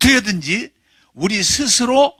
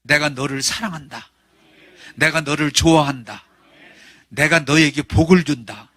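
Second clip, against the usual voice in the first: Lord's tender words; 4 semitones lower than usual. Acted. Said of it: "주님은 그렇게 말씀하셔요".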